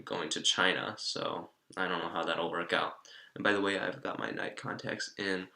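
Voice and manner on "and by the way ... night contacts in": talking around a retainer; speaking with retainer in mouth; wearing a retainer. Real, not acted. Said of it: "so I'm speaking a little bit weird".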